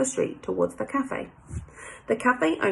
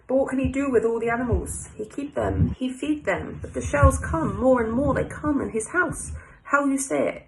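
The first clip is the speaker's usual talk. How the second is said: higher-pitched French café owner telling a sad tale; French accent; 4 semitones higher than usual. Acted. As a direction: tell it in French-accented broken English. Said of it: "I like my little French voice".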